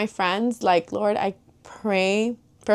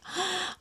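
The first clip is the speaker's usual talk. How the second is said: soft surprised gasp; 11 semitones higher, 10 dB quieter than usual. Retold or imitated. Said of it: "tripped me out of nowhere".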